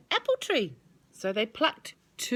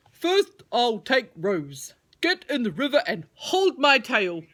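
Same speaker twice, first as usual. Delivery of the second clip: worm voice; 3 semitones higher, 7 dB louder than usual. Acted. Worm instructing Rose.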